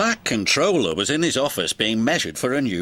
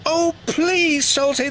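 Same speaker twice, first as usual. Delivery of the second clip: much higher sing-song plea; chiming; 13 semitones higher than usual. Acted. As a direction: chime it like eager twins. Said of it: "they chimed".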